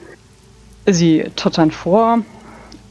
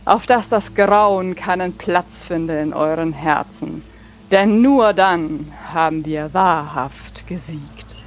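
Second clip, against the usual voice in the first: hammy stage actor; 2 semitones higher than usual. Acted. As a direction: proclaim it with big theatrical sweep. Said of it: "sehr tulamidisch, theatralisch".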